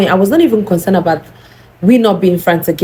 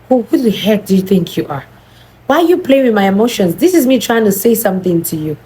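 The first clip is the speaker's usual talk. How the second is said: faster, mock-angry scolding; retold angry outburst; 4 semitones higher, faster than usual. Telling off the best friend who won't answer, put-on anger. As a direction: act out building anger at the friend. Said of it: "let me activate my anger".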